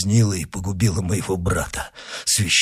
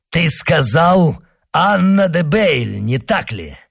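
shocked questioning; 8 semitones higher than usual. Acted. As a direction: press for confirmation, pitch jumping up. Monk presses for confirmation.

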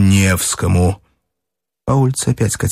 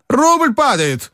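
high, slow excited cry; exclaiming; 14 semitones higher, much slower than usual. Acted. Strukov exclaims to Ivan Ilyich at the café, high excited cry. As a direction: cry it out in alarm. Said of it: "воскликнул он".

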